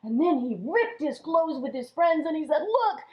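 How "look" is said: higher, near-tearful panic; mock frightened wail, higher; scared king. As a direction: fret aloud, a whimper breaking through. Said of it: "And he was so scared".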